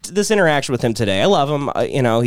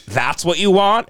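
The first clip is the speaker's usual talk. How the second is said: slow, higher scornful question; mock disbelief; 4 semitones higher, slower than usual. Godfather seeing the shorts he picked, mock scorn. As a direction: draw it out in put-on disbelief.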